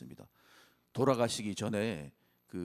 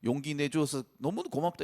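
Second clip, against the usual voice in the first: higher, louder fatherly praise; God's encouraging voice; 5 semitones higher, 4 dB louder than usual. Pretend. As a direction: cheer them on like a proud father. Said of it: "이렇게 말씀하지 않을까요".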